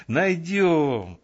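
lifted, breezy reply; cheerful. A narrator's reading. Girl reassuring the lieutenant about a brush, cheerful. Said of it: "весело сказала Мирочка".

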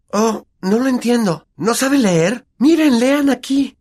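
high, slow exasperated Hermione; impatient know-it-all. Acted. (Hermione exasperada)

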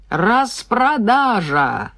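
slow, drawn-out loudspeaker call; metallic PA voice. Acted. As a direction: announce it over the store speakers. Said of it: "гремел с потолка металлический голос".

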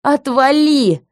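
loud, high, slow snarl; snapping. Acted. Heroine shoving man away, snapping loudly. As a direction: snap it right back at him. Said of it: "огрызнулась".

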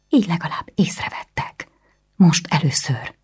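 furious hissed whisper. A narrator's reading. Anna hisses back at her brother, whispering. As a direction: spit it out under the breath.

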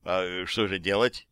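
low, quiet, slow and lost; shaken. Acted. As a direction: ask it helplessly, deflated. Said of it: "совсем другим тоном".

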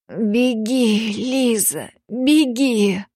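хриплый умирающий шёпот-крик; выдавить с трудом, хрипя. Acted. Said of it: "прохрипел он с трудом". (прохрипел с трудом)

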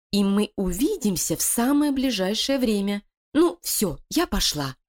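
high, sly voice of a plotting wife; scheming female voice. Acted. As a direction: persuade her partner, cold and cunning. Лилия успокаивает Кокоса. (коварная интриганка)

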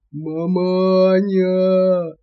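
bass bellow. A narrator's reading. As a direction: bellow for your daddy. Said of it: "поддержала его басом". (орёт басом, протяжно)

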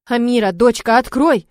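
loud call through a door. Acted. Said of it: "зовёт Тина с той стороны". (няня зовёт девушку через дверь, громко)

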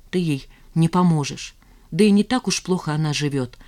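ordinary delivery, nothing marked

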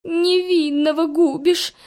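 high, slow, crying lament; wailing cat. A narrator's reading. Cat dangling from the window wails to the witch, crying. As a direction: wail and weep for mercy. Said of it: "запричитал Фимка".

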